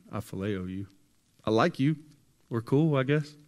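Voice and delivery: half-hearted, dodging the question; hesitant Peter. Retold or imitated. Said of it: "Peter says it again".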